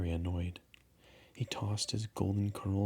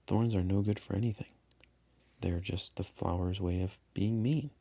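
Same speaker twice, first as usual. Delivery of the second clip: dismissive. Acted. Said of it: "answered without thinking".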